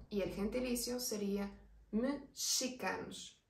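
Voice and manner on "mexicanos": "mexicanos" said slowly as "mishicanos". Shown as a demonstration. Teacher demonstrating "mexicanos" slowly with a sh sound. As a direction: draw out "mexicanos" with a sh in place of the x. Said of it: "la X suena como una sh".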